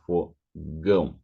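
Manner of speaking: fogão slowly, nasal ão at the end. Shown as a demonstration. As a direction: stretch out fogão. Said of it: "and then in the word".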